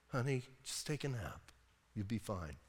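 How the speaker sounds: mock tender Delilah; soothing coo. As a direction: lull him to sleep. Delilah stroking him.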